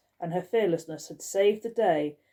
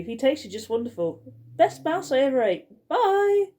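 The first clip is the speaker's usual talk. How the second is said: higher and louder, gleeful and cheeky; brazen playful cat act; 6 semitones higher, 4 dB louder than usual. Acted. Girl pretending to be a cat to baffle Skullface, gleeful. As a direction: brag about eating the mouse with glee.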